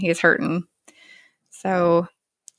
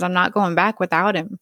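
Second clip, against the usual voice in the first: falling apart. Retold or imitated. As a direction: say it like a worn-out father, understated. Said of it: "Michael's falling apart again".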